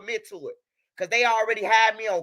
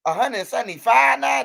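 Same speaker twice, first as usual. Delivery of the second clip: incredulous. Real, not acted. Reacting to the payout figure.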